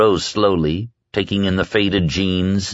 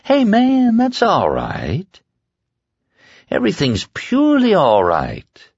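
soothing; 12 semitones higher, slower than usual. A narrator's reading. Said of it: "Flagg soothed".

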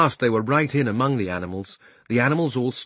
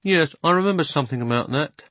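horse voice; 6 semitones higher than usual. Acted. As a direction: recall more and more. Horse remembering.

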